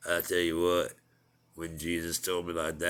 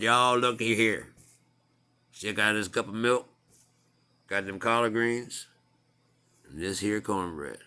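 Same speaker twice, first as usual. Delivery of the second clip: put-on country accent. Jesus cooking beans tells his disciples about cornbread, in a light Southern country accent. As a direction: play Jesus as a Southern good old boy, lightly. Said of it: "Jesus with a country ass accent".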